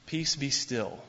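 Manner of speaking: put-on a calm, gentle command like hushing a child. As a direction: settle it down like a parent to a child. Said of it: "That's how you talk to a child".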